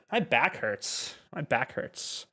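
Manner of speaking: My back hurts slow, after a sigh; slow sighed demo. Shown as a demonstration. Teacher answering a viewer, slow and clear. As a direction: model My back hurts slowly. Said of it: "Me duele la espalda".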